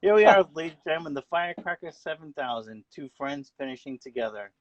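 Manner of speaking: loud, fast closing call; race announcer. Pretend. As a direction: wrap up the finish like a broadcaster. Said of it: "how about you call the final half a lap of a race?".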